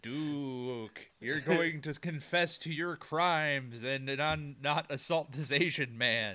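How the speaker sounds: slow eerie ghost voice; a hint of a spooky ghost; ghostly voice. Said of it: "I'm making him sound like a fucking ghost".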